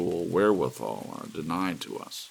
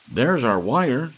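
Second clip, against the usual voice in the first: higher, louder and slow, every word landed; exclaiming; 6 semitones higher, 8 dB louder, slower than usual. A narrator's reading. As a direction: announce the find triumphantly. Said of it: "Dave Miller exclaimed".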